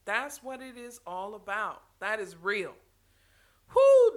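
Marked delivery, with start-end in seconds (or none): 3.8-4.2 louder, exclaimed with a whoo; emphatic loud affirmation. Real, not acted. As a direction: call it out like an amen. Repeats for emphasis.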